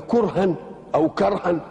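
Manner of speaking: first كرها with u as kurhan, then كرها with e as kerhan; two readings of kurh. Shown as a demonstration. Sheikh contrasting the two readings of كرها for his listeners, kurhan then kerhan. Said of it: "كرها بفتح الكاف".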